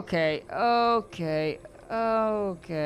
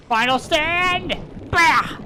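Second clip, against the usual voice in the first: higher, louder, slow drawn-out war cry; battle cry; 10 semitones higher, 6 dB louder, much slower than usual. Real, not acted. Streamer turns to face the enemy, hammed-up battle cry. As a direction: bellow it like a last-stand hero.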